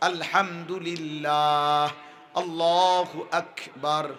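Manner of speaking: আলহামদুলিল্লাহ sung out slowly and clearly; each phrase recited unhurried, one per breath; calm, careful dhikr; slow correct recitation. Shown as a demonstration. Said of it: "এভাবে এক নিঃশ্বাসে একবার".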